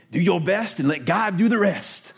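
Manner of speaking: slow, singsong bumper-sticker delivery; cliche-ish slogan. Shown as a demonstration. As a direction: draw it out like a corny slogan. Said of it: "why I said it like that".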